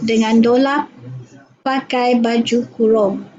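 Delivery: put-on reading in a Kelantan accent; Kelantan dialect. Sarawak student reading for the ustaz, light Kelantan accent. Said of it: "dalam dialek Kelantan".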